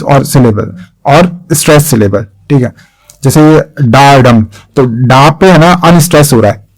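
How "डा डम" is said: "डा" left unstressed, stress falls on "डम"; unstressed-stressed beat. Shown as a demonstration. Teacher showing students the iambic beat, "डा" unstressed and "डम" stressed. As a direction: lean on "डम", not on "डा". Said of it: "जो syllable में मैं stress कर रहा हूं".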